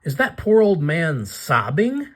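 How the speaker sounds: put-on high, bright little vampire girl; Batsy voice. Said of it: "She says".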